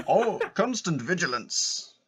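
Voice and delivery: drawn-out line through laughter; amused catchphrase recall. Acted. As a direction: quote it with amused recognition.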